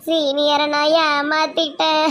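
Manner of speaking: slow wail breaking into sobs; hammed-up crying admission; tearful confession. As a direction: drag it out, then sob. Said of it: "அழாதீங்க".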